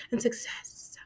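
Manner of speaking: soft whispered and success; whispering the transfer confirmation. Real, not acted. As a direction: breathe it out quietly.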